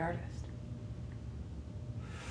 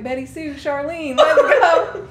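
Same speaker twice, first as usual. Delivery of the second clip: higher, hammed-up mock Southern country accent breaking into a laugh; 9 semitones higher, 13 dB louder, much slower than usual. Sisters goofing on a road trip, playful mock country accent. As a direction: play a goofy country gal in a put-on Southern country accent. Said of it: "we talked in that accent".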